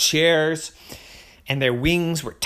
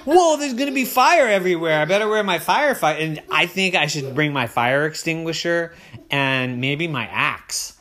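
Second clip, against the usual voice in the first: put-on excited little girl; 4 semitones higher, 5 dB louder than usual. Poppy voiced, excited child.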